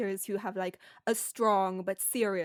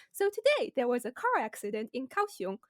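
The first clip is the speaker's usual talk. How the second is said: chirpy newscaster; 4 semitones higher than usual. Retold or imitated. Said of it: "they sound so happy about it".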